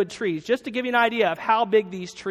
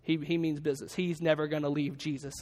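hushed awe; 3 semitones lower, 7 dB quieter than usual. Retold or imitated. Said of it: "everybody kinda probably stopped, like".

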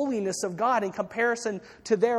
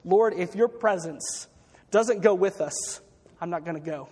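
acted bold ultimatum. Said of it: "very boldly and says".

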